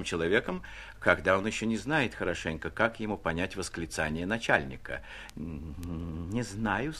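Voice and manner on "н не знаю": растерянное бормотание. A narrator's reading. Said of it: "пробормотала она".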